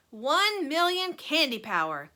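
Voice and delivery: loud, high proud boast; delighted cry. A narrator's reading. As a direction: show off gleefully. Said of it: "he cried".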